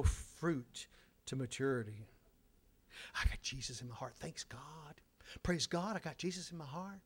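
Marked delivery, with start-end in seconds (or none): 3.1-7.0 mock pious gushing. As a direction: imitate someone piously counting blessings. Mimics self-declared blessed church people.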